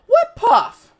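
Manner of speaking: high, laughing what puff; surprised laugh. Real, not acted. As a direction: act puzzled with a laugh. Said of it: "Why you use that nerdy voice?".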